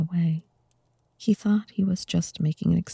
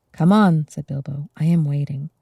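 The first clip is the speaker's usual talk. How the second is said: louder, forced brave cheer; bold and cheerful; 5 dB louder than usual. Acted. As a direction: fake a confidence you lack. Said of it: "He tried to sound bold and cheerful".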